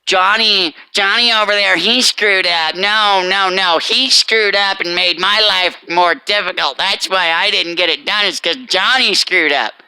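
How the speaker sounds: imitating someone pinning it on Johnny; blame-shifting excuse. Mocking a worker who blames a coworker, mild whine. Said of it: "Instead of saying".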